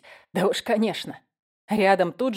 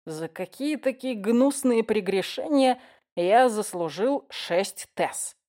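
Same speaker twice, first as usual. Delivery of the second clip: put-on slurred drunk musing; 3 semitones higher, slower than usual. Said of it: "задумался вслух я".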